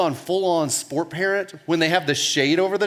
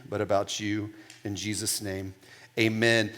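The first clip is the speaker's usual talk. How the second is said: heartfelt prayer; 2 semitones lower than usual. Real, not acted. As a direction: pray sincerely, letting the end drop away. Pastor opens with prayer.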